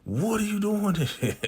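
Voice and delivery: high, laughing mock disbelief; amused retelling. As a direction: squeak it out through a laugh. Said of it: "the funniest dialogue".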